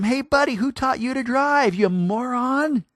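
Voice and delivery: high, loud mock yelling at a driver; hammed-up road rage, slowing on moron. Driver yelling at the man who cut him off, mock angry. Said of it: "we yell at him".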